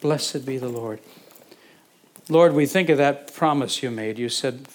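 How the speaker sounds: earnest prayer. Acted. Pastor leading the congregation in earnest prayer. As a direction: pray aloud for the room.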